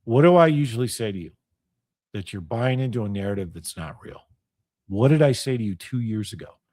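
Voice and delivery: low-pitched, controlled questioning; calm. Retold or imitated. Reminding a friend of thirty-five years of warnings, calmly. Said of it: "very calmly said".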